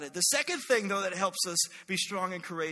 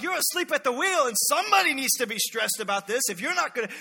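louder, higher, agitated complaint; stressed scolding; 4 semitones higher, 5 dB louder than usual. Acted. Stressed disciples to sleeping Jesus, agitated scolding. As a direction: scold in acted alarm.

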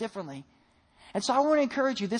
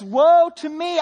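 anguished cry; 7 semitones higher, 10 dB louder, much slower than usual. Acted. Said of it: "And he says".

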